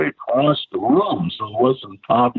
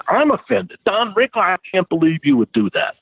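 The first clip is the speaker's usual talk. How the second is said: irate; 7 semitones higher than usual. Retold or imitated. Joe Smith irate on phone.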